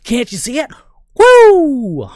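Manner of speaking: gloating, rising to a wild whoop; mad scientist. Retold or imitated. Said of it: "full mad scientist mode".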